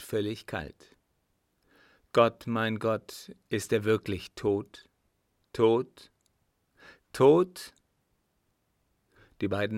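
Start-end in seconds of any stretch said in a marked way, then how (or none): 2.1-7.7 disbelief mounting into a cry; rising shock. Acted. Son realising his father is dead, rising shock.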